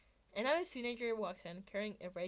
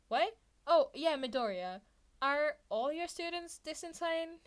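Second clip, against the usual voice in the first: higher, louder disbelief; can't believe what he hears; incredulous; 6 semitones higher, 7 dB louder than usual. Acted. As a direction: Mike asking Eraser about his students. Mike incredulous.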